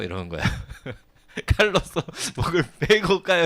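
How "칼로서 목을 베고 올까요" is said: higher, louder eager offer; eager retainer. Retold or imitated. Loyal officer offering to kill the heckler, mock eager. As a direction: offer to behead him with mock zeal. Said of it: "이러는 거예요".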